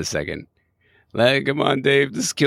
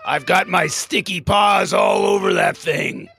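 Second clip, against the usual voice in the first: excited cry; 6 semitones higher than usual. Real, not acted. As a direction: squeal it out proudly. Bragging about website.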